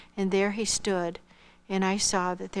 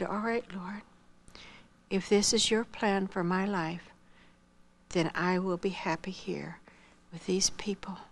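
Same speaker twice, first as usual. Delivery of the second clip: softly yielding, fading to a whisper; bow your head and whisper your surrender; whispered prayer of acceptance to the Lord; tearful prayer; 3 dB quieter than usual. Retold or imitated.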